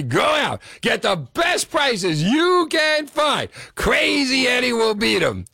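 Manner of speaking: over-the-top commercial shout, stretched out; screaming pitchman. Retold or imitated. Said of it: "the screaming guy".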